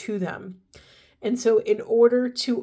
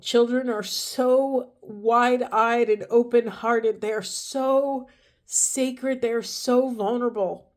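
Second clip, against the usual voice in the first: welling up; 3 semitones higher, slower than usual. Real, not acted. Reader moved while speaking about children, slow and choked up. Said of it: "I'm gonna get emotional".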